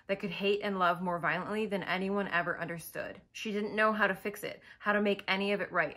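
measured story narration; understated audiobook-style narration; book reading. Acted. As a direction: read the passage aloud with quiet gravity. Reads a book passage aloud.

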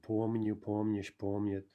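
Помню, помнишь, помнит all stressed on first syllable; stem stress. Shown as a demonstration. Teacher listing stem-stressed forms, Помню, помнишь, помнит stressed up front. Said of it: "that's gonna be stem stress".

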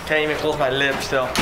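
numb lip, slurring a little; numb from the dentist. Real, not acted. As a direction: talk through a numb, drooling lip. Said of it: "my lip is still numb".

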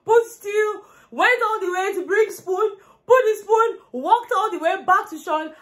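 laughing while telling. Real, not acted. Laughing through the story of the serving.

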